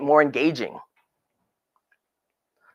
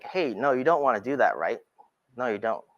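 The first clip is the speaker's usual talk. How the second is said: gentle warning; 3 semitones lower, 5 dB quieter than usual. Shown as a demonstration. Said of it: "turn my head like".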